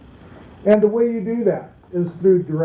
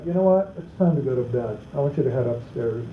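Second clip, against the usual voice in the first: lower, firm, direct instruction; mean every word, steady and firm; a dad firmly sends the kids to bed; firm and serious; 5 semitones lower, 4 dB quieter, faster than usual. Shown as a demonstration. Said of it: "That's a whole different thing".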